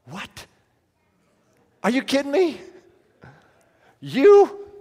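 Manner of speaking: put-on high, incredulous girl's voice; mock the friend's shock, rising to a loud cry; amazed disbelief. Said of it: "she was just amazed".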